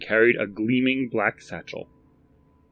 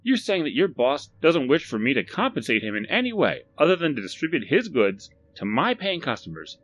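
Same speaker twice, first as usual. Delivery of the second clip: louder, higher, incredulous shopkeeper; the shopkeeper doubts the stranger's offer, louder and higher; Barry, suspicious; 8 semitones higher, 4 dB louder than usual. Acted. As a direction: push back like a wary salesman. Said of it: "continued Barry".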